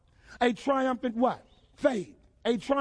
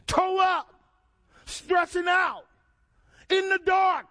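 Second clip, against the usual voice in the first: preached shout; 6 semitones higher, 3 dB louder, slower than usual. Acted. Preacher climaxing on darkness.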